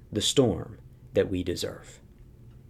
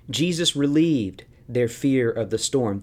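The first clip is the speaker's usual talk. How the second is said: ordinary talk, nothing marked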